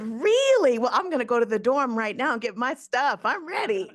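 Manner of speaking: high, loud burst of eagerness; eager excitement. Retold or imitated. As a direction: blurt it out like a thrilled young girl. Eager young self retold.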